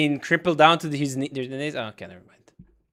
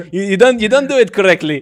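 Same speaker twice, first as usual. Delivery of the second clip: laughing; 2 semitones higher, 6 dB louder, faster than usual. Real, not acted. Teasing caller about his accent.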